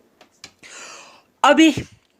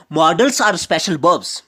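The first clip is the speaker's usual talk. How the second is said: slow emphasis; much slower than usual. Shown as a demonstration. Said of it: "slow teacher emphasis".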